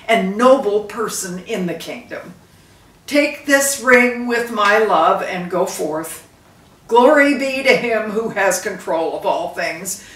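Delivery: a hint of a solemn king blessing his son; lightly voiced dying king. Dying king blessing his son at the bedside, solemnly. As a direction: give it like a last blessing.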